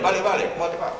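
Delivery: Castilian Spanish with a stiff upper lip; mock Castilian Spanish. Mocking Spaniards who keep a stiff upper lip, in a Castilian accent. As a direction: say it as a Spaniard who barely moves the lips. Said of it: "Son los españoles también".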